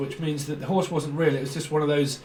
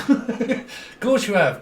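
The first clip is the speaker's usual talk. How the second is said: sarcastic; 6 semitones higher, much slower than usual. Real, not acted. Sarcastic reply to busybody.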